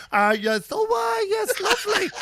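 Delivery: high, loud, hesitant mock reply; mimicry slipping away. Portia transitioning back after realising, imitated awkward switch. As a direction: backpedal from the borrowed voice, pitched high. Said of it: "Goes back into her own voice".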